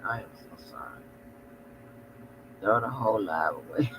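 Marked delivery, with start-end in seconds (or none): 0.1-1.0 apology stretched through a real yawn. Real, not acted. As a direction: say it mid-yawn, low and soft. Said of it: "I'm just yawning on".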